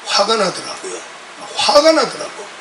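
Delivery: normal talking voice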